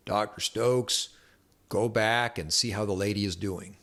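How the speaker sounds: slow, stretched Southern drawl imitation. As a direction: drawl it out like the old Southern doctor. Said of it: "this real Southern drawl".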